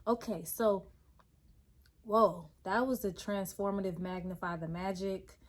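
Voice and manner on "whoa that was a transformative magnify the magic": underselling it. Real, not acted. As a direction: say it flatter than you feel. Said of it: "I'm kinda underselling it with my tone".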